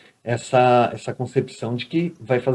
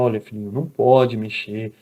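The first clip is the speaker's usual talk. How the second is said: tender mother; 3 semitones lower than usual. Retold or imitated. Mother gently explaining the shock to her son, tender. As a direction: coax the little one kindly. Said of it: "tem que chegar com amor".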